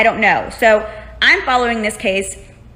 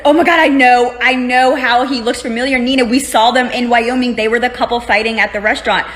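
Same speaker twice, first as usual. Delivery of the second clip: imitating an agitated realization, louder and higher; retold freak-out; 3 semitones higher, 5 dB louder than usual. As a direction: burst out loud, then ease down. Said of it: "he's freaking out".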